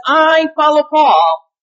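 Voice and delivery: slow, emphatic "I" in "I follow Paul"; stress on I. Shown as a demonstration. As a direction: lean hard on "I", stretch the line out. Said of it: "let me emphasize the word "I".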